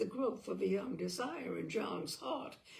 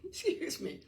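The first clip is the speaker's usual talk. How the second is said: laughing apology; 7 semitones higher than usual. Real, not acted. Reader apologises for stumble, laughing.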